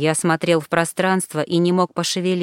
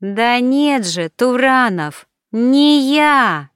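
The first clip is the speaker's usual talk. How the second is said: insisting; 7 semitones higher, 4 dB louder, much slower than usual. Acted. Alina insists again.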